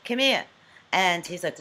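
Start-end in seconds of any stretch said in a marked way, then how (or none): 0.1-0.4 chopped-off Brooklyn "Come here"; "Come here" in Brooklyn style, endings dropped; Brooklyn accent. Shown as a demonstration. Showing how her accent confuses David, Brooklyn accent. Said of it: "he can't understand my Brooklyn accent".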